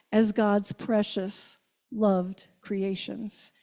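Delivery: slow and hushed, savoring each word; softly lingering on precious and loved; tender refrain. Acted. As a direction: lay it down gently like a blessing. Tender refrain of God's love.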